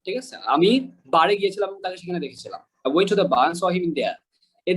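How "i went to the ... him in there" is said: slow British "bar" and "there" without R; British silent R. Shown as a demonstration. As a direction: drop the final R's in a British way. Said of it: "তারা কিন্তু আর গুলা তারা কিন্তু উচ্চারণ করে না". (British ঢঙে ধীরে, র ছাড়া)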